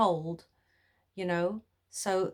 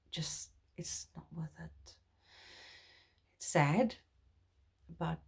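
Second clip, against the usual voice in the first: hushed, intimate whisper; 2 semitones lower, 8 dB quieter than usual. Real, not acted. Advising viewers not to be prisoners, whispered. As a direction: breathe it to the viewer.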